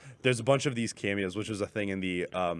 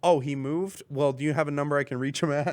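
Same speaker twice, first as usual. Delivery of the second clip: Kermit voice; 5 semitones higher than usual. Retold or imitated. Kermit phoning Jimmy Carter.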